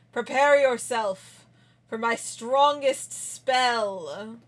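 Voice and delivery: slow, measured showman's build-up; mock-dramatic warning. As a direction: draw it out like a grand announcement. Mock-solemn warning before a spell.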